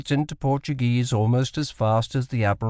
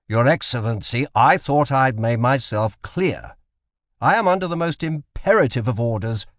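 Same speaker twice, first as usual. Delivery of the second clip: a touch of stern insistence; mildly forceful ultimatum; 4 semitones higher, 3 dB louder than usual. Acted. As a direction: press the governor hard but controlled. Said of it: "Drury now spoke forcefully".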